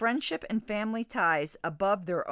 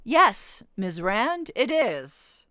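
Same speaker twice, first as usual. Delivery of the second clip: Russian accent; 3 semitones higher, 4 dB louder, much slower than usual. Shown as a demonstration. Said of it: "I can't do a Russian accent".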